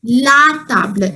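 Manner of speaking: "La table" slowly, La with an open ah; corrected French pronunciation. Shown as a demonstration. Teacher correcting a student's article, slow careful "La table". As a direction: stretch "La table" out, French ah in both words. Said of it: "L A is la".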